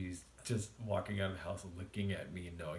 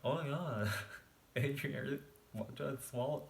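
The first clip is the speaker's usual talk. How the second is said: excited; 7 semitones higher, 3 dB louder, slower than usual. Retold or imitated. Excited reaction eating.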